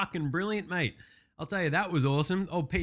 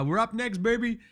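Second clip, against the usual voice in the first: higher, louder excited yell; Joel Embiid yelling; 7 semitones higher, 3 dB louder than usual. Retold or imitated. Joel Embiid yelling on local Philly TV, imitated as an excited, higher, louder shout. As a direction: shout it like a player celebrating in the streets. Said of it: "he also drops in a".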